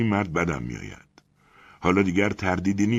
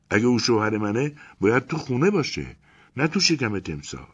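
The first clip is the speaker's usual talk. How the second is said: high, louder woman's voice, defiant; rehearsed justification; 6 semitones higher, 3 dB louder than usual. Acted. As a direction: Elena defends divorcing her swallowed husband, defiant. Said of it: "انگار از پیش حرفایی را حفظ کرده باشد".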